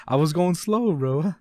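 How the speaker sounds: high, loud, laughing objection; laughing protest. Real, not acted. Reader defends himself to cohost, laughing protest.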